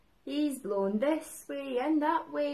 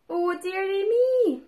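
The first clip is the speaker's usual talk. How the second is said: mock dismay; 5 semitones higher, 7 dB louder than usual. Tim sees shark again.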